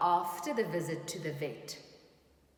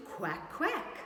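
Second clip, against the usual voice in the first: quack; 6 semitones higher than usual. Acted. Duck noise.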